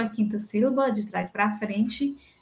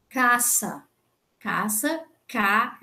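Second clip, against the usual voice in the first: "Caça" repetido, depois só o CA isolado; penúltima sílaba tônica; much slower than usual. Shown as a demonstration. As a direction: destacar o "Ca" de "Caça". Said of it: "a penúltima sílaba é a". ("Caça" com a primeira sílaba forte, isolada no fim)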